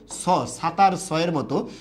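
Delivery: "স" as a sharp English-style s; "সাতার" begun with a clean s; hissing s sound. Shown as a demonstration. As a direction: say "স" with the tongue forward, not as sh. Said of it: "উচ্চারণটা কিন্তু আবার সয়ের মতো হতে পারে".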